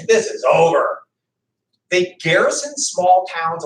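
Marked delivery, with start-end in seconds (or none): 0.0-1.0 laughing, careless British brush-off; hammed-up smug redcoat, laughing it off; mock dismissive. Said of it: "you know, they're like".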